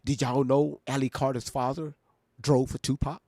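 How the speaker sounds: hammed-up teaser for a clip, rising at the end; mock clickbait question. Host mocking clip-makers, mock clickbait teaser. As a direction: pretend to be a gossip headline. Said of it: "Now watch somebody take their part and clip it".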